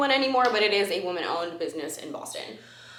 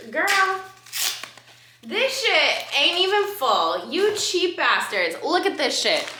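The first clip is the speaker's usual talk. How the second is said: loud, slow, indignant griping; hammed-up angry rant at a stingy brand; mock rant; 8 semitones higher, 4 dB louder, slower than usual. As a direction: drag each word out in exaggerated outrage. Ranting at cheap brand.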